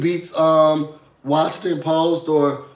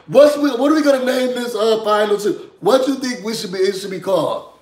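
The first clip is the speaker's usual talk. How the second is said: raised-pitch mock announcement; yelling over loudspeaker; 5 semitones higher than usual. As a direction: call it out for the whole house to hear. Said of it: "Yelling it over the loudspeaker".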